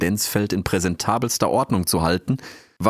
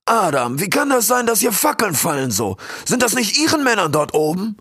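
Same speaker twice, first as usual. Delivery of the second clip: booming warrior king; 12 semitones higher than usual. Acted. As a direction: call your eagles to halt with authority. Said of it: "frug den Weißkopf".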